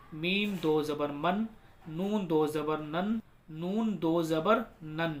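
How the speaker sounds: slow, measured sing-song drill; spelling recitation. Shown as a demonstration. Teacher leading learners through do zabar, measured recitation. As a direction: chant each letter, then its sound.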